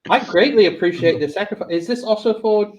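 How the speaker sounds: a hint of Southern mom. Mom asks who the sacrifice is for, lightly Southern mom. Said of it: "like, a Southern mom's voice".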